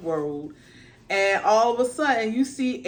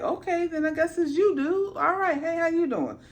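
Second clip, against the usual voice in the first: higher, laid-back dragon voice; a dragon greeting a buddy; lightly voiced friendly dragon; casual dragon; 4 semitones higher than usual. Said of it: "he's like".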